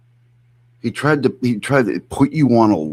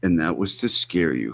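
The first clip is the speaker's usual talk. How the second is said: softer, ominous mock repeat of And that was to scare you; mocking imitation; 2 semitones lower, 6 dB quieter than usual. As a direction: drop to a hushed mock menace. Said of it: "Who talks like this?".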